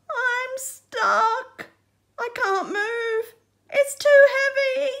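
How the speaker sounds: high, loud, tearful wail; crying out in panic. Acted. Crab pinned by his heavy shell, tearful panic. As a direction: cry for help under the weight. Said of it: "he cried".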